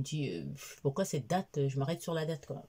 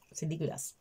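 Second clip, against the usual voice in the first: whispered disgust; 6 dB quieter than usual. Real, not acted. Goûte l'infusion.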